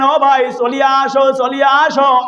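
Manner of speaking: high chanted call to come back. Acted. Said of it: "ব্যক্তিকে ডাক দিলেন". (সুর করে ডাক দেওয়া)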